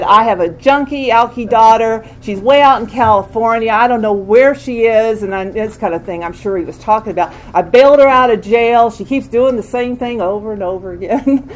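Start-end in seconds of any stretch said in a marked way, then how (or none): 0.0-5.2 imitating daddy. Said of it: "my daddy had talked about me and said". 7.5-11.5 imitating daddy. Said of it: "my daddy had talked about me and said".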